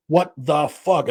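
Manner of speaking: slow, drawn-out mock disbelief; mildly acted, slow astonishment; retold disbelief. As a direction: stretch out each word, imitating someone stunned. Retold character's stunned reaction.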